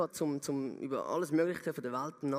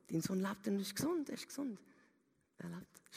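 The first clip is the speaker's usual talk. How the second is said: higher, rising with joy; excited good news; 8 semitones higher than usual. Acted. Servants running to tell the father his son lives, excited.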